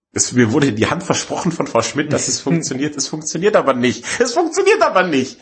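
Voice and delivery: hammed-up customer despair, building; exasperated complaint. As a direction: complain with climbing, indignant pitch. Acted complaint to hotline, escalating.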